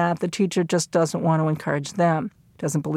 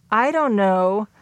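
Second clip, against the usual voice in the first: slow, with DON'T stretched and KNOW lifting slightly; tentative; 2 semitones higher, slower than usual. Shown as a demonstration. James hinting to the teacher for encouragement, tentative. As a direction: hesitate as if wanting a nudge. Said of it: "in that tentative sort of way".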